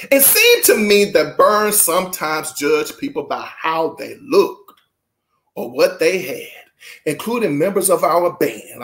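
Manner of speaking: deliberate, emphatic reading voice; measured read-aloud with punched phrases; book read-aloud. Acted. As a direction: read it out to an audience with weighted key words.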